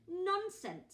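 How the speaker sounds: a high, loud, firm "Nonsense". Acted. Missus Large brushes off her husband's doubt, firmly and loudly. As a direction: brush the idea off at once. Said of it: "said Missus Large".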